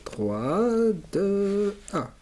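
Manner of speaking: loud, high countdown call. Real, not acted. Compte à rebours avant la musique. (compte à rebours crié, aigu et fort)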